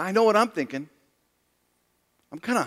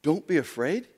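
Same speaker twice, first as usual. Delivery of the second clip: softer, rising disbelief; incredulous echo; 3 semitones lower, 4 dB quieter than usual. Shown as a demonstration. Preacher doubting Jesus's words, soft and rising. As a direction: repeat it as if it's absurd.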